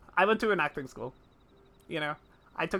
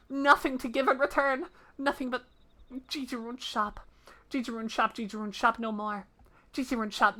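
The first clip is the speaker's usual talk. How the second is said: a lightly raised, broken-speech creature; humble little creature, a bit sad; small creature voice; 4 semitones higher than usual. Acted. Creature character Jijirun speaks.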